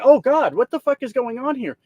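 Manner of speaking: high, shocked "Oh God" that settles into disbelief; mock alarm. Trucker imitating a roasted guy who is suddenly horrified. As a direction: act out being stunned by a threat. Mock reaction to doxing threat.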